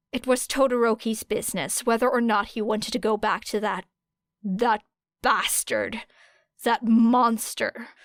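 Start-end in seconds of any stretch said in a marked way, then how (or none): 4.4-7.9 slow, bitter loathing; slow seething hatred; slow hateful words. Acted. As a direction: spit each word out slowly. Era's hatred.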